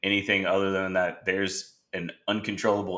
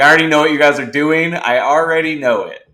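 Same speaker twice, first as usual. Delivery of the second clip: excited know-it-all; 7 semitones higher, 8 dB louder than usual. Retold or imitated. Predicting junior winner.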